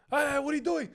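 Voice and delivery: dramatic reaction. Retold or imitated. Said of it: "it was a dramatic reaction".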